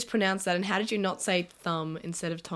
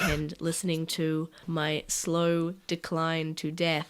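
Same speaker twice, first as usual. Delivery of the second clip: raspy voice; 4 semitones lower, slower than usual. Real, not acted. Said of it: "That sexy rasp".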